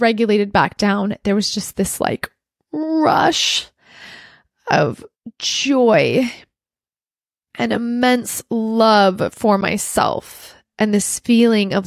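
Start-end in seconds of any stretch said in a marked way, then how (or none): 2.7-10.6 slow, halting, moved delivery; real heartfelt awe, drawn out; emotional. Real, not acted. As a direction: let each phrase swell with feeling, pausing between. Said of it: "I'm gonna kinda get emotional".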